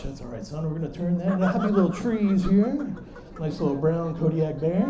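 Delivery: lightly voiced soothing TV painter; Bob Ross. Dad to son about hallway mess, gentle encouragement. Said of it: "Bob Ross got another brush".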